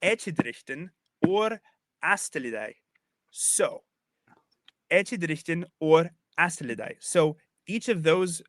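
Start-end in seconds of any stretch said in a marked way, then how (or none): 0.0-2.7 "echidrichten or astelidei" in spaced-out chunks; measured Old English verse, pausing before "astelidei"; Old English recitation. Shown as a demonstration. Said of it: "The next line". 4.9-7.0 "echidrichten or astelidei" said deliberately as verse; careful Old English, each word set apart; Old English recitation. Shown as a demonstration. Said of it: "The next line".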